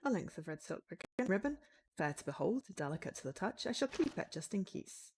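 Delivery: in-character game narration. Acted. Writer examining an unsettling painting, in-character narration. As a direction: read the game text as the writer-hero. Reads found item text.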